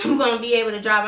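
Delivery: fast, laughing at her own answer; laughing at the memory of insisting she could drive; laughing repeat. Real, not acted. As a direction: repeat it while laughing at yourself.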